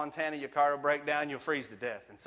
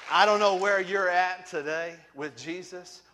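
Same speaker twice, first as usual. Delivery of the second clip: louder, higher, slower appeal; altar call; 4 semitones higher, 8 dB louder than usual. Real, not acted. Preacher appealing to the crowd about Jesus, earnest loud call. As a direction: reach out to every listener.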